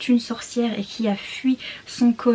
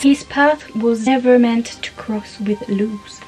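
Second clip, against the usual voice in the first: dramatic English reading. Shown as a demonstration. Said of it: "mon super accent anglais". (lecture dramatique et lente, accent français)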